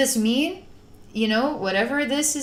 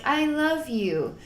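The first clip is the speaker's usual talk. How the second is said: tender; 6 semitones higher, slower than usual. Retold or imitated. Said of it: "It's like".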